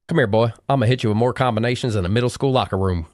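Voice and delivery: lightly imitated Southern accent; granddaddy's fighting saying in a put-on Southern twang; borrowed Southern accent. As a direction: pitch the fighting threat in a mock Southern accent. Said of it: "pitch 'em in, in your accent".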